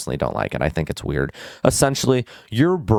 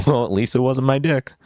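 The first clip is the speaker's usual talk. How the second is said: light higher put-on voice, laughing it off; mock carefree quip; 6 semitones higher than usual. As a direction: shrug off the injury with a joke. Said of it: "This is the type of person I am".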